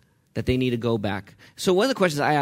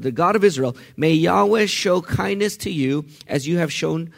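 pleading mother-in-law; 3 semitones higher, 4 dB louder than usual. Acted. Naomi voiced pleading with daughters-in-law.

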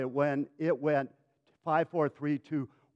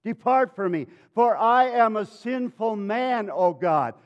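loud, mildly anguished plea; impassioned acted confession; crying out; 3 semitones higher, 4 dB louder, slower than usual. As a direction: cry it out slowly and forcefully. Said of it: "he cries out to".

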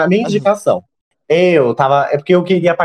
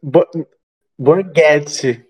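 careful slow pronunciation; much slower than usual. Shown as a demonstration. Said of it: "eu não sei falar o nome dela".

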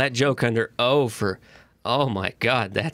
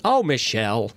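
Bob Saget impression; 2 semitones lower than usual. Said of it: "He's only funny when he's saying".

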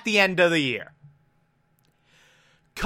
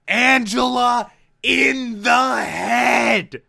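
drawn out word by word; dismayed exclamation; 3 semitones higher, slower than usual. Real, not acted. Podcast host recounts a shocking death, drawn-out and aghast. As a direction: stretch every word in stunned disbelief.

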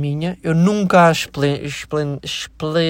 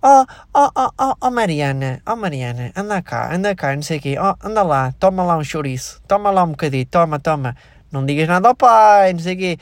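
creepy uncle. Retold or imitated. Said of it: "aquele tio".

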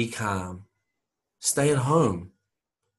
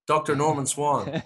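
Scottish-accented name, pitched higher; 4 semitones higher than usual. Shown as a demonstration. Comedian correcting co-host on the doctor's name, Scottish accent. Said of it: "say it in a Scottish accent".

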